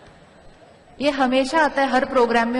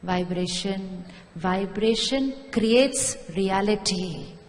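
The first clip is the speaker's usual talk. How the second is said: slow emphatic maxim; 3 semitones lower, slower than usual. Acted. Slow maxim over music.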